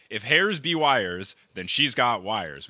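mock recital. Mocking the poem's line again.

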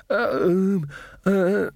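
high, halting nervous stammer; stuttering. A narrator's reading. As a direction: stumble over the sounds, frightened. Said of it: "Magrat stuttered".

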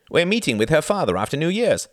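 high, loud eager announcement; excited. A narrator's reading. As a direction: share the good news excitedly. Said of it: "said Reginald excitedly".

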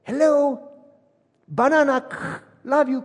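as if the signal keeps dropping; wife cutting through a bad line; choppy phone call.

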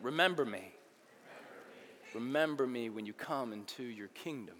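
soft, low, heartfelt plea; mean every word of it; a quiet earnest request. Shown as a demonstration. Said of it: "Say it like you mean it".

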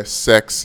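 "sex" for six, with an e vowel; New Zealand pronunciation. Shown as a demonstration. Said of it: "New Zealanders say sex".

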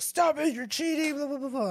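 high-pitched imitation of a whining kid; mock accusing child. Kid accuses dad of cheating, high mock protest. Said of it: "he kept telling me I was cheating".

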